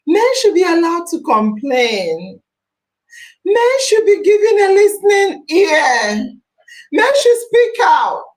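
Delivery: impassioned public plea. Real, not acted. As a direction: plead it with full force.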